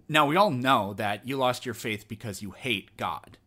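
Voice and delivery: mock-solemn sarcastic accusation. Host mocking what atheists get told, sarcastic. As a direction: state it as if obvious, tongue in cheek. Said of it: "I'm obviously being sarcastic here".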